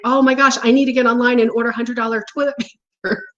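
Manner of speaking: fast, half-laughing panicky rush; mock freaking out. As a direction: gabble it like a hoarder in a hurry. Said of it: "then you start freaking out".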